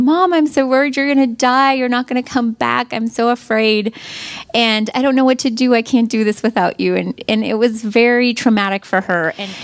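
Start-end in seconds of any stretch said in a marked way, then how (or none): 0.0-7.0 put-on a touch of higher, upset child quoted; imitating her crying daughter. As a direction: lightly voice the crying girl's fear. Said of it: "bawling and crying and just saying".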